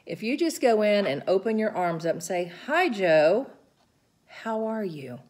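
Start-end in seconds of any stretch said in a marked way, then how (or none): 2.6-5.2 calm greeting. Retold or imitated. Caregiver greeting Joe with open arms, calm and gentle. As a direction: welcome him kindly and slowly. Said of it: "If you speak slow and clearly".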